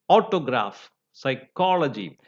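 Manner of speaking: "autograph" stressed on AU-, "psychology" on -CHOL-; third-from-end stress. Shown as a demonstration. Teacher illustrating the rule, stress third from the end. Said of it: "third syllable from the end".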